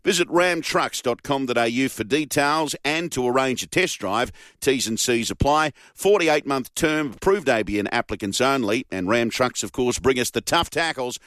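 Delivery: brisk radio ad read; steady announcer read of a truck ad. Acted. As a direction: sell the offer like a live sponsor read. Host reads live sponsor ad.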